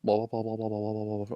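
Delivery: normal talking voice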